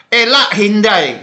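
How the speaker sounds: "Elak hindai" said slowly, each word spelled out; slow Dayak Ngaju example; Dayak Ngaju phrase. Shown as a demonstration. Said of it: "contoh yang lain yang mudah".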